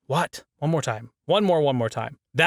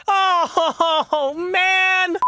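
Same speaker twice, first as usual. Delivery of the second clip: laughing groan; 13 semitones higher, 3 dB louder than usual. Real, not acted. Laughing after flubbed take.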